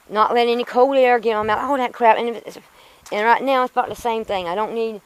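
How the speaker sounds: griping fast about all the hassle; frustrated. Real, not acted. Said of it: "I'm just frustrated".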